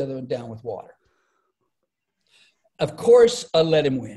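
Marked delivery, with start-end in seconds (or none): 2.8-4.2 loud mock-boast. Comedian telling the interviewer about the church race, loud and playful. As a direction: throw it out big, like an obvious joke. Clown race retold, punchline setup.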